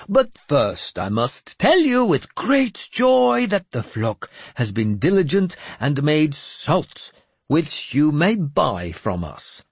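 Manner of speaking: put-on high, slow, grandly pious old madman; a cracked holy man delivering God's message; mad bishop voice. Jeremias announces joyful news.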